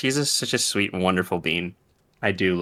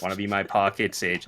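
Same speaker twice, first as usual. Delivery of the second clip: put-on deep E-boy voice; 3 semitones lower, 4 dB quieter than usual. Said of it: "the weird deep E-boy voice".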